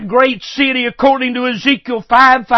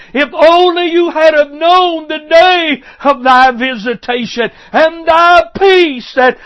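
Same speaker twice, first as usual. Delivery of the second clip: raised-pitch, preached plea of regret; impassioned lament; 4 semitones higher than usual. Acted. Preacher voices Jesus grieving lost peace, impassioned lament. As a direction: plead it high, as a lament.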